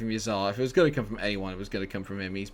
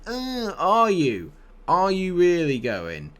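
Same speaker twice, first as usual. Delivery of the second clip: sarcastic; 7 semitones higher, 4 dB louder, slower than usual. Real, not acted. Sarcastic reply to moaning player.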